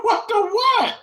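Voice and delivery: high laugh into the words; laughing disbelief. Real, not acted. Reacting to viewers on scrapple, laughing and baffled.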